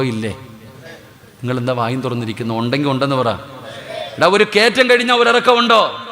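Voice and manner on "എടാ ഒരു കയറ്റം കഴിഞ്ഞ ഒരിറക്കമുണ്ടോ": high loud ഒരിറക്കമുണ്ടോ flung at the crowd; preacher demanding an answer from a silent crowd; thundering repeat. Shown as a demonstration. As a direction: hammer the question again, much louder. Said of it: "repeated louder".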